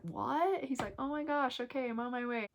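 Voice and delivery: light impression of a startled husband; surprised husband. Husband's shocked reply retold.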